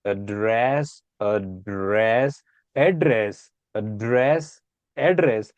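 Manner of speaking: vary the stress each time you say address. Shown as a demonstration. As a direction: address alternating rising and falling stress. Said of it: "stress on anything".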